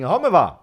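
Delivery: "Come va" with C turned to H, homɛ va; "Come va" said as "Home va"; Livorno accent. Shown as a demonstration. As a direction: breathe the C into an H like in Livorno. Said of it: "they're saying".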